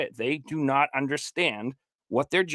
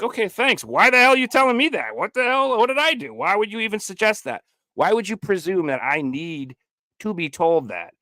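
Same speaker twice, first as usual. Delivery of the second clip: incredulous, offended; 6 semitones higher than usual. Retold or imitated. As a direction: act baffled that anyone would say this. Imitated offended listener reply.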